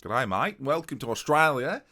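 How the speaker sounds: a hammed-up but faint Aussie twang; bad Australian accent. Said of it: "this accent's getting worse".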